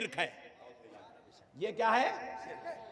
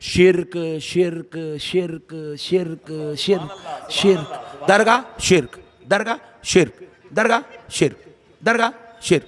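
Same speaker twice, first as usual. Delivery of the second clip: rote parroting; 7 semitones lower, slower than usual. Retold or imitated. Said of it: "तेरे को रटा दिए बेटा".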